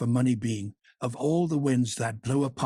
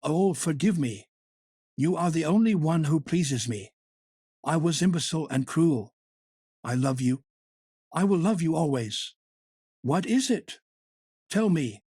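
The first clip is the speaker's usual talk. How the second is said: cried out; 5 semitones higher, 3 dB louder than usual. A narrator's reading. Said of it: "he cried out".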